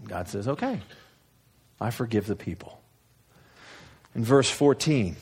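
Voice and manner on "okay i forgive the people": soft relenting. Acted. God softly relents.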